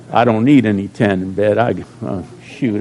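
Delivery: laughing. Real, not acted. Joke about his own tan.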